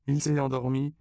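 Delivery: put-on high, loud, lightly amused child; laughing child. A narrator's reading. Consuelo tells the adults about Pedro, amused child voice. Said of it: "dit Consuelo en riant".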